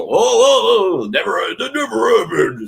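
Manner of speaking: high, loud mocking whine; mock denial. Mocking fans who deny their hate, in a high squealing voice. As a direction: play the fan who swears he never hated, squealing.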